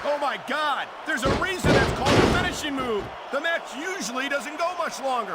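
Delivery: amazed play-by-play call; excited commentary. Acted. Commentator reacts to the finisher.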